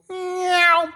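high mock eagle cry; eagle screech. Preacher imitating the eagle stealing a fish, high screech.

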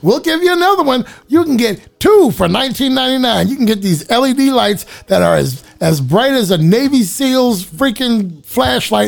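infomercial. Pretend. Mock TV infomercial pitch.

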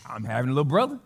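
imitating an excited little boy, rising at the end; retold childlike excitement with an upward lilt; excited child. Little boy telling everyone about the coming baby, excited. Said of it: "He was excited".

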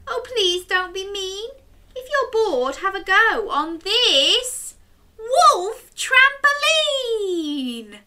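put-on high, bright little girl. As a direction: coax the wolf sweetly, like a small girl. Chloe offers trampoline.

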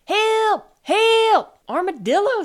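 loud, high-pitched cries; crying out. A narrator's reading. Armadillo stuck in the chair, crying for help. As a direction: call out in alarm, high and loud.

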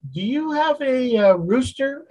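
gentle questioning village sage; wise old sage. Acted. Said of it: "asked the wise man".

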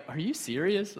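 hushed mock disbelief as the wife; quietly ask, as if stunned; wife's disbelief. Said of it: "she looks at me like".

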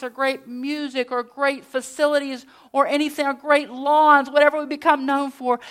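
full-force pulpit plea; preaching. Acted. Preaching on the core of love.

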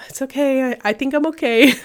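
P=A; brave reassurance. Retold or imitated. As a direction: brush it off for the family. Reassuring family after fall.

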